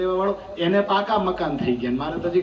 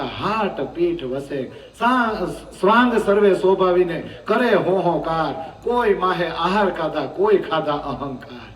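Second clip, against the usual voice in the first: verse recitation; slower than usual. Acted. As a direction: intone the scripture lines slowly to the congregation. (ધીમા સ્વરે ચોપાઈનું પઠન)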